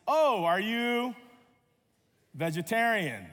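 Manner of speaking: lightly acted, drawn-out question; curious stranger. Strangers quizzing him about his diet.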